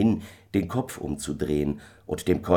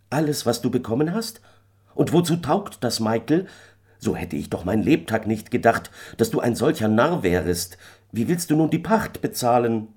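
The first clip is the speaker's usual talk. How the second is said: wife's higher voice, indignant; scolding wife; 6 semitones higher, 3 dB louder than usual. A narrator's reading. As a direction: scold the husband in disbelief. Wife scolds foolish husband. (empörte Ehefrau, höhere Stimme, vorwurfsvoll)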